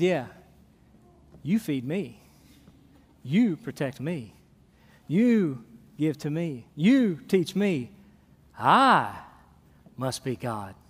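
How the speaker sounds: a lightly voiced uncaring cat, dragging the lines; bored cat voice. Preacher playing the aloof cat that cares for nobody, bored and low. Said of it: "they said".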